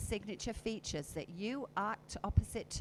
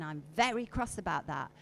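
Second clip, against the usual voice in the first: kindly; 3 semitones lower, 4 dB louder than usual. Shown as a demonstration. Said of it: "say it in a kindly voice tone".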